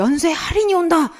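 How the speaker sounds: high-pitched commercial announcer; TV ad imitation. Teacher repeating the TV ad for students, announcer imitation. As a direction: announce it like a sale advert. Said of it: "이렇게 광고를 하는 거예요".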